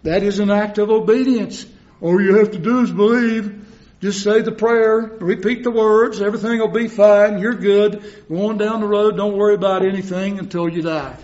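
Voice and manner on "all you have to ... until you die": mock breezy reassurance, higher and louder; sarcastic cheerful voice. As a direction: parody the careless preacher, quick and light. Mocking easy-believism, mock voice.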